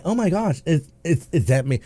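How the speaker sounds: acting clueless. Speeder playing dumb for police, acting clueless. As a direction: pretend you have no idea, hesitantly. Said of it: "acting like".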